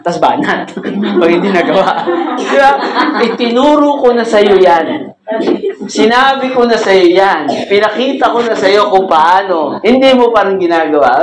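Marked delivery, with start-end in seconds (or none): 2.3-11.2 stern parent scolding. Acted. Parent scolding child, acted.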